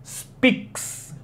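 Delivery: speaks, the ks hissed like a cymbal; whispered final ks. Shown as a demonstration. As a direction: end speaks with a crisp ks. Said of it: "a gente fala essa palavra como speaks".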